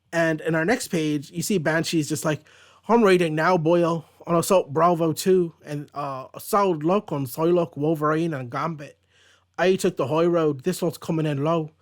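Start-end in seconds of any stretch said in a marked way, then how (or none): 2.9-11.7 hammed-up Irish brogue, a bit louder; comic Irish accent for Banshee; stupid Irish accent. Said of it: "it's doing stupid accents".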